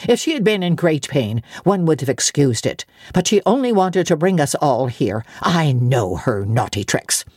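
put-on scorn the child's tricks lightly; disgust. Maid scolding the child in mild disgust. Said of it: "in some disgust".

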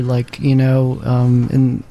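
ordinary talk

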